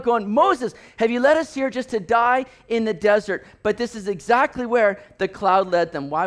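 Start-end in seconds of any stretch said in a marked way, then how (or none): 0.3-3.5 mildly acted panicked complaint; imitating a frightened crowd; freaking out. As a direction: accuse with a touch of alarm. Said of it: "they're freaking out".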